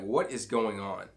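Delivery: slow, aggressive question; aggressive demand. Shown as a demonstration. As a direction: press the servant for an answer. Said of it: "I think it's more aggressive".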